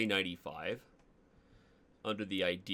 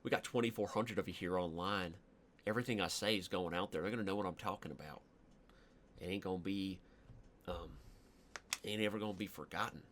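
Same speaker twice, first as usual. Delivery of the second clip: put-on country accent. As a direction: ramble on like a folksy yokel. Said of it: "These are the accents I'm not allowed to do".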